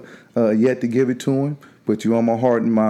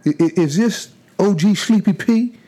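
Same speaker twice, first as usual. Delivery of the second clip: higher, slow delighted greeting; excited; 9 semitones higher than usual. Real, not acted. Greeting old friend by nickname.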